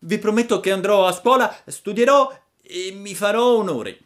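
loud high pleading puppet. Acted. Pinocchio chiede a Geppetto se non c'è altro, voce acuta. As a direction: beg in disbelief.

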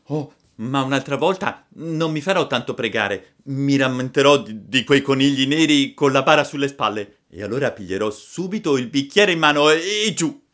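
high, loud eager puppet; Pinocchio entusiasta. A narrator's reading. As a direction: promise it like an excited child. (burattino entusiasta, voce acuta e forte)

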